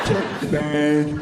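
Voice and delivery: low, put-on Jamaican accent; mock Jamaican accent. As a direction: order food in a hammy Jamaican accent. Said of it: "why not put on a Jamaican accent?".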